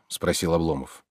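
usual speaking voice

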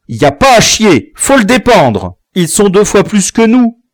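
put-on frightened runaway boy warning the others; cautious fugitive. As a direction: urge caution, a bit rattled. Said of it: "remarqua l'un des fuyards rendu prudent".

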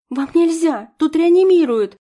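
high, loud frantic cry; panicked shout. Acted. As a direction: shout to stop them, alarmed.

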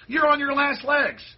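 furious rant aimed at the mainstream media; angry tirade. Real, not acted. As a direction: hurl it at the media.

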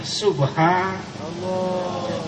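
hushed awe. Real, not acted. Awed sigh.

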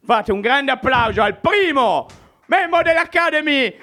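showman introducing an act; announcer. Acted. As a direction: build it up to a big name. Host introduces the first act. (annuncio da presentatore)

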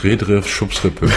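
Name rückwärts gesprochen; backwards speech. Pretend. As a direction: Redriff Schubsrippe als rückwärts gelesener Name. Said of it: "kann wirklich rückwärts sprechen". (Name rückwärts ausgesprochen)

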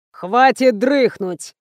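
slow, whistling through the teeth; whistling hiss. Acted. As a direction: hiss it out slowly. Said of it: "просвистел мистер Икс". (просвистеть медленно)

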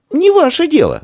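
curt, high snap; sharp retort. A narrator's reading. Shchuka snaps back at the boy, sharp and high. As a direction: cut him off sharply. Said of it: "резко бросила ему Щука".

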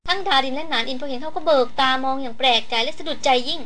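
usual speaking voice

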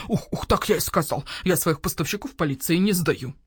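owl shopkeeper voice. Acted. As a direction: voice the grumpy owl merchant. Owl refuses.

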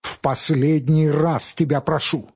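last desperate plea rising in pitch; in despair. Acted. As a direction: beg and threaten at once. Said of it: "заговорил Павел с отчаянием".

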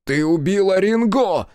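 loud, high accusing yell; shout. A narrator's reading. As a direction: scream the accusation. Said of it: "закричал Хицу".

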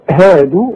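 هادوا with all letters thin; هادوا said light, no heavy sounds. Shown as a demonstration. Teacher shows هادوا thin to a student. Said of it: "كلها مرققة".

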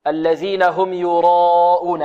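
slow, measured tajweed recitation; Quran recitation. Shown as a demonstration. Teacher modelling the verse for students, measured recitation. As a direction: recite it slowly with drawn-out long vowels.

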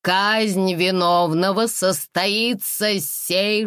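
slow grand announcement of execution; solemn proclamation. Acted. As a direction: declare it ceremonially. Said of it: "торжественно провозгласил".

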